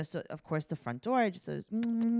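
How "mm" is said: long held hummed mm; drawn-out mock smooch hum; kissing noise. Retelling how he kissed the windows, mock smooch noise. Mimicking baby kisses on glass.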